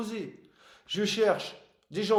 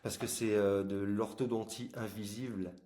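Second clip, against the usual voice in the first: talking around a plastic aligner; slightly impeded speech from braces; 5 semitones lower, 5 dB quieter than usual. Real, not acted. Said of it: "j'ai un appareil dentaire".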